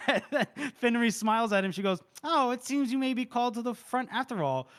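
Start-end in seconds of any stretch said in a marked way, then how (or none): 2.2-4.7 higher-pitched mock-innocent needling; playful smart-ass jab. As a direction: tease with put-on politeness. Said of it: "be a smart ass to Baez".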